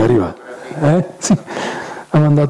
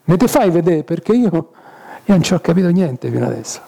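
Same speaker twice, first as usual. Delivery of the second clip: a hint of a dying man calling out to God; pleading Jesus; 2 semitones higher than usual. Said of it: "ho detto che". (Gesù che supplica Dio, voce più alta)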